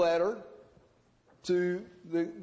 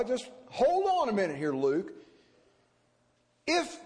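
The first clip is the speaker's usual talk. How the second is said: higher, puzzled questioning of a doubting reader; skeptical objection; 4 semitones higher than usual. Retold or imitated. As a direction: push back on Luke as a doubter. Imagined objection from Theophilus.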